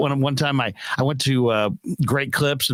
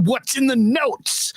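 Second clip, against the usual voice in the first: mock angry stylist; 10 semitones higher, slower than usual. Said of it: "she's like".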